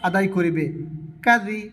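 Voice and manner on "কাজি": কাজি with জাল said thin, tongue tip at the front teeth; light dental জাল in কাজি; কাজি with a thin জাল sound; thin jal. Shown as a demonstration. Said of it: "জাল পাতলা করে বলবে".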